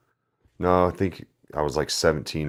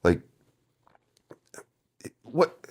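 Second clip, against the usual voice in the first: much higher, slow, mock-baffled voice; stunned disbelief; slower than usual. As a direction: stretch it out like you can't believe it. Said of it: "and I was like".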